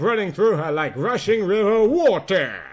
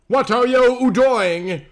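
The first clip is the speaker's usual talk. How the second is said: high, shaken disbelief; stunned daughter crying out, slowed; shocked plea; 7 semitones higher, 4 dB louder, slower than usual. Acted. Daughter sees father beside her enemy, stunned and high.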